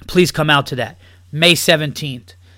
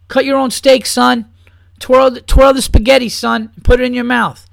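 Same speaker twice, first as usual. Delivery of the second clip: loud, raised-pitch lecture at the son; ranting yell; 7 semitones higher, 5 dB louder than usual. Real, not acted. Ranting podcaster yelling at a mother about her son. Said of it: "I ranted and I yelled".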